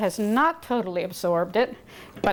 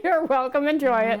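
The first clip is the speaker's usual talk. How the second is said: laughing, voice up high; 6 semitones higher than usual. Real, not acted. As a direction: laugh through the words. Laughing at co-host.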